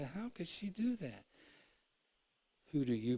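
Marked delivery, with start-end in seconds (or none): 0.0-1.2 much higher, mocking disbelief; mock incredulous question; scoffing. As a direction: scoff as if it were obvious. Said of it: "We laugh at Mary and say".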